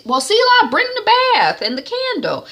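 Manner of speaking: high, loud churchy command; commanding mother. Retold or imitated. Mommy ordering a spiritual bath, loud and high. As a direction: call it out like a prayer warrior.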